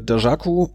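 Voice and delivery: "Dajaku" with a French-style zh for the j; trying a pronunciation. Shown as a demonstration. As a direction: say "Dajaku" tentatively as da-zha-ku. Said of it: "Wie spricht man da eigentlich aus?".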